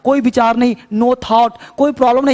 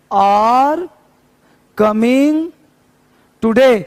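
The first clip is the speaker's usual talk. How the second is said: slow and clear; much slower than usual. Shown as a demonstration. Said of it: "और साफ देखो".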